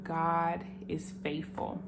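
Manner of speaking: slow, hushed unvoiced whisper. Real, not acted. To viewers, a slow reverent whisper. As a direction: breathe the words out slowly like a secret. Quiet testimony aside to viewers.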